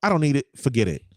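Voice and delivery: high-pitched exasperated wife impression; imitating wife. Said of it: "this is how she say I'm being mean".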